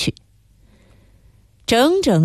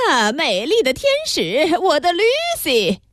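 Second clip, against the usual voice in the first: weird-voiced bellow; 8 semitones higher than usual. A narrator's reading. Theatregoer hollering on the sidewalk after the show, weird-voiced bellow. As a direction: belt it out in a strange high voice. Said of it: "拉大嗓门儿怪声高喊".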